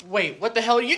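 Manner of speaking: rising into an angry shout; angry outburst. Acted. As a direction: catch the outrage mid-word. Outraged player at game table.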